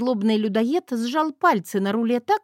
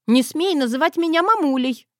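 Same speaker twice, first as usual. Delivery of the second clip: higher, louder indignant snap; snapped; 7 semitones higher, 4 dB louder than usual. Acted. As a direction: bark it at the girl. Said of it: "в один голос с Крыловым рявкнули".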